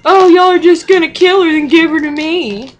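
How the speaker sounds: high, loud mock sobbing complaint; imitating grandma's crying fit. Grandma accusing the family, a loud high mock sob. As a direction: ham up a tearful hissy fit. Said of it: "crying her eyes out".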